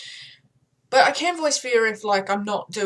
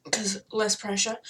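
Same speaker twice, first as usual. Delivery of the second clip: whisper. Real, not acted. Aside, whispered.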